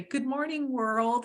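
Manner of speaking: high gleeful good morning. Retold or imitated. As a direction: greet the day with glee. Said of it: "all gleefully and say".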